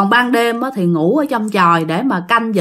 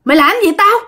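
higher-pitched, cocky retold defiance; insolent; 7 semitones higher, much faster than usual. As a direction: throw it out as an insolent dare. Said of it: "mà ổng nói bố láo lắm".

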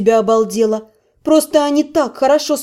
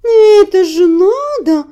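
higher, louder, slow laughing sob; sobbing with laughter; 7 semitones higher, 5 dB louder, slower than usual. A narrator's reading. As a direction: gasp it out, weeping from laughter. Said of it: "всхлипывал Филимон".

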